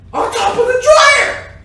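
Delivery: very high, loud mock-indignant yell; outraged shout. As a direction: blast the punchline in disbelief. Outraged climax of the story.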